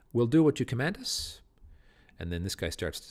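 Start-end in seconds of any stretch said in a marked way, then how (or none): 0.1-1.4 loud, higher eager vow of obedience; murderers' reply. Acted. Murderers promising Macbeth obedience, loud and keen. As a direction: bark it up as a willing henchman. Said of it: "murderers answering Macbeth".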